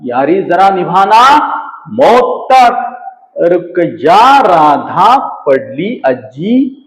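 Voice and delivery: slow, dramatic mock recital; a lightly hammed shayari recital; recited with style. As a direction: declaim it like a grand couplet. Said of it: "फिर से एक बार".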